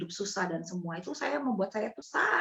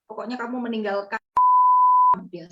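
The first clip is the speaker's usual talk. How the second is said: higher, tearful reproach; mother weeping over her child's choice; crying reproach; 6 semitones higher, 6 dB louder than usual. Retold or imitated. Mother confronts her daughter in tears, reproachful. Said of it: "Itu mama saya nangis".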